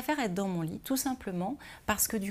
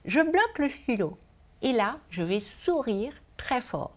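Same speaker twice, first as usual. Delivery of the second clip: words muffled by a pen in the mouth; pen in teeth; 4 semitones higher than usual. Real, not acted. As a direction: talk with a pen clamped in the teeth. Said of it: "ce n'est pas évident de parler avec un stylo dans la bouche".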